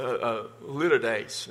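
"a litter days" said in a Texas drawl, like litter; Texas-accent litotes. Shown as a demonstration. Pastor showing the congregation his Texas pronunciation. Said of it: "My Southern, my Texas accent".

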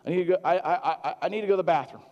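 put-on urgent ask from a confused old man; lightly voiced patient; imitating a confused patient. Patient quoted asking.

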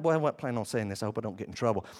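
soft confiding under the breath; hushed aside. Real, not acted. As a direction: drop the voice as if sharing a risky secret. Pastor's unplanned nervous aside.

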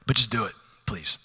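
a hint of a hopeless plea; half-hearted prayer. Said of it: "with the prayer of".

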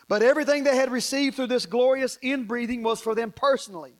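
preaching. Real, not acted. Preacher explaining the disciples' experience to the congregation, preaching. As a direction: preach it out with force.

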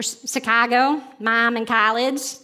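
slow demo of Chicago vowels; Chicago accent. Shown as a demonstration. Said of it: "because of how I shape my vowels".

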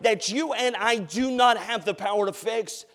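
loud, high preaching at full force; fiery sermon voice. Acted. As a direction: preach it out to the whole church.

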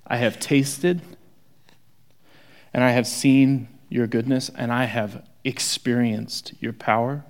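heartfelt devotion; sincere. Shown as a demonstration. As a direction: say it like a grateful friend who has seen it all. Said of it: "The context is this".

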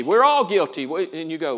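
normal talking voice

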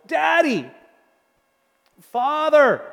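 high, loud anguished cry to the father. Retold or imitated. Jesus in the garden cries out to his Father, high and loud. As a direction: cry out Daddy in agony, pitched well up. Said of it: "he cried out to his Father".

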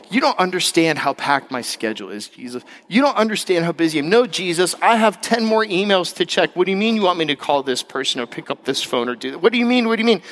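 mock flustered brush-off, rising at the end; harried protest. Busy believer refusing Jesus's interruption, flustered. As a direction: build to repeated incredulous questions.

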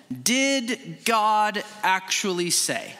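slow, deliberate questioning of God's word; serpent's question. Acted. Serpent to the woman, slow planted doubt. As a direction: stretch out each word, sowing doubt. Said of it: "He said to the woman".

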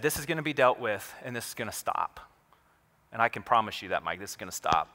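retold quiet assurance, sinking low by the end; mild reassurance. Principal promises the boy it will stop, mildly reassuring.

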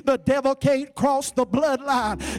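emphatic sermon delivery; forceful preaching. Real, not acted. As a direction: drive each assurance home to the congregation.

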